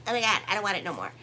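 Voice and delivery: rushed whiny rejection; fast mock whine. Astrologer mimicking a fickle Libra dropping a blessing, fast whine. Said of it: "be your own worst enemy and be like".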